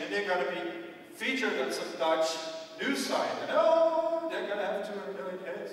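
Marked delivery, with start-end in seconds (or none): 3.5-5.7 mock panic. Mocking a manager's panic.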